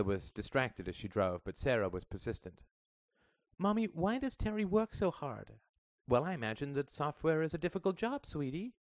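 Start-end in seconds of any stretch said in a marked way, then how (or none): 3.6-5.6 put-on high, curious little girl voice; a child pressing her mother with questions; young girl Sarah. A narrator's reading. Little daughter asking her mother in the car, high and curious. 6.1-8.7 a hint of a patient mother's voice; lightly voiced mother. A narrator's reading. Mother to her daughter in the car, lightly voiced and patient.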